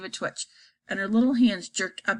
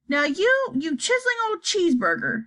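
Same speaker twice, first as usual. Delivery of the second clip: mock angry shout; 7 semitones higher than usual. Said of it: "she shouted".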